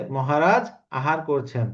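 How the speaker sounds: মহারাজ আহার করছেন said slowly, word by word; slow, measured formal Bengali; slow, careful. Shown as a demonstration. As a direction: spell out the formal phrase slowly. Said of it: "হ্যাঁ, হ্যাঁ".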